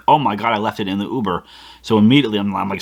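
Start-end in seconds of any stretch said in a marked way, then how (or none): 0.1-1.4 retold realization. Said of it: "And it hits me".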